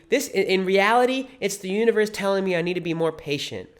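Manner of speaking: a hint of someone talking themselves round; pronoia optimist. Imagined driver cut off in traffic, hopefully rationalizing. Voices pronoia thinker reasoning it away.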